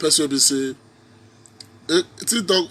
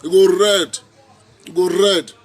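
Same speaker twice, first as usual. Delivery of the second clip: "go" hit loud and high; "You go red" with a louder "go"; stress on go; 3 semitones higher, 7 dB louder than usual. Real, not acted. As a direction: punch the word "go" in "You go red". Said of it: "You go red for all of una".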